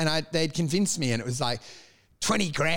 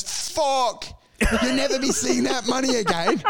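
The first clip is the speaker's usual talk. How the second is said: higher-pitched mock British gypsy accent; attempted gypsy accent; 7 semitones higher than usual. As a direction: imitate a gypsy tradie's accent, laying it on. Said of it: "I can't even do the accent".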